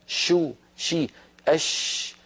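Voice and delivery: slow شو شي then voiceless أش; sh sound demo. Shown as a demonstration. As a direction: draw out each sh syllable. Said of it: "فكتبوا الشين من وسط اللسان". (نطق الشين ببطء)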